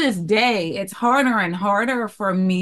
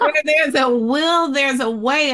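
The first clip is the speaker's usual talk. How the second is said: laughing; 8 semitones higher, 3 dB louder than usual. Real, not acted. Laughing while quoting the saying.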